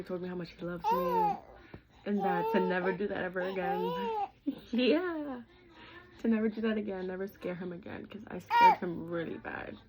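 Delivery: teary, crying through the words; voice breaking. Real, not acted. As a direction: talk through tears. Telling emotional reunion, voice breaking.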